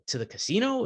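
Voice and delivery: high, rising disbelief at the casino; surprised question. Retold or imitated. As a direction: ask it like you can't believe the destination. Old man asks in disbelief.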